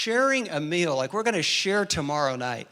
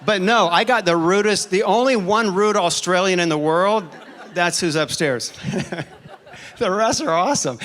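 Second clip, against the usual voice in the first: laughing; 2 semitones higher, 4 dB louder than usual. Real, not acted. Laughing at the rude Australian.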